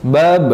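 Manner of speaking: "Bab" with the final b released in a bounce; bouncing b. Shown as a demonstration. Ustaz showing qalqalah, final b of "Bab" bounced. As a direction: bounce the last consonant of "Bab".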